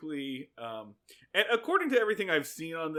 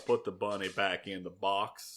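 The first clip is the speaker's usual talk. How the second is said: lower, softly tossed-off film quote; Nicolas Cage; 8 semitones lower, 4 dB quieter than usual. Acted. Host quoting Con Air, lightly impersonated movie hero. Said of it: "Nicolas Cage in Con Air".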